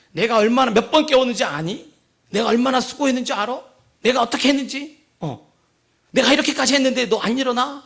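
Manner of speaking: retold rant about my own effort; scolding father. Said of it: "결국 소리치면서". (아이를 나무라는 짜증 섞인 아빠)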